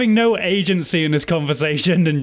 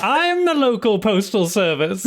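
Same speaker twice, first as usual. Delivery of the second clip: lightly voiced owl shopkeeper; 7 semitones higher than usual.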